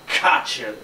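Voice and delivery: rasped, threatening demonstration; rasping tone. Shown as a demonstration. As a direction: put a rasp into the threat. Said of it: "a rasping tone in the voice".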